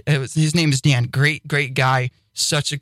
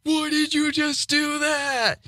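baffled listener; 13 semitones higher, 3 dB quieter, slower than usual. Retold or imitated. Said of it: "somebody going".

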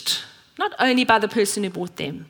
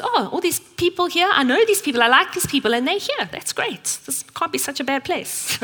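lightly voiced friend, higher, pleasantly surprised; a hint of happy surprise, higher, trailing into a hush; delighted friend; 6 semitones higher than usual. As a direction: play the friend as he realises he knows everyone. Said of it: "suddenly he goes".

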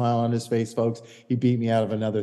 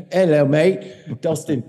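put-on light English accent, coaxing a young player; a hint of an Englishman saying mate; imitating Poulter's English accent; 3 semitones higher than usual. Poulter coaxing Dustin to aim for the middle, light English accent. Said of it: "Poulter comes over and he goes".

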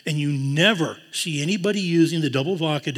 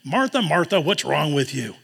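a mild scolding tone; reprimanding. Shown as a demonstration. Jesus scolding Martha, mild reprimand. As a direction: chide her, lightly. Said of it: "He's not reprimanding her".

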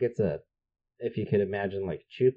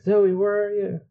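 retold scream; 13 semitones higher, 6 dB louder than usual. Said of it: "They're screaming".

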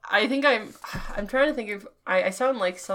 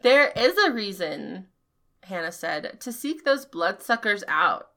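put-on old man voice; 3 semitones lower than usual. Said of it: "he sounds like the voice I'm using now".

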